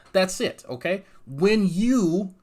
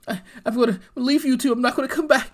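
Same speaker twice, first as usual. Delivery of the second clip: higher, whiny mock-tearful farewell; mock crying; 7 semitones higher than usual. Mocking the rival's tearful quit video: higher whiny mock crying. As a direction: mimic a dramatic quit announcement through fake tears. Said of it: "And fucking crying".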